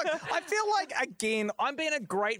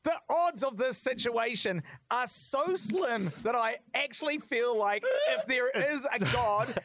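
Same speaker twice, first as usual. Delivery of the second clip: laughing; 4 semitones higher than usual. Real, not acted. Laughing in disbelief.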